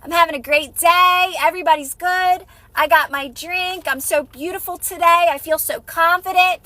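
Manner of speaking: upbeat self-satisfied chirp. Retold or imitated. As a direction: gush about your great day. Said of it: "And you're like".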